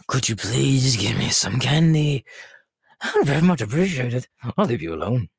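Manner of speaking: put-on insistent, childlike pleading; wheedling plea. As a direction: beg for candy, drawing it out. Begging for candy.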